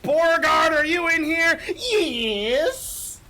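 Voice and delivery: high, loud mad wizard call; crazy scientist wizard. Retold or imitated. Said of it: "crazy scientist wizard who's, like, working at his workstation".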